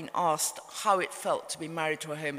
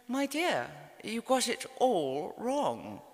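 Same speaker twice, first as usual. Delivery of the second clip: lightly voiced mother, pitched up, drawn-out ending; mother's verdict; 4 semitones higher, slower than usual. Mother passing judgement on daughter's memoir, reproving. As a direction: deliver a slow, higher-pitched verdict as the mother.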